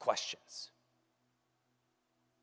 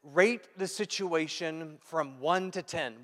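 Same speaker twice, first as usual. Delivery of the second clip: slow, deliberate; 3 semitones higher, 6 dB louder, much slower than usual. Retold or imitated. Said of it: "they said".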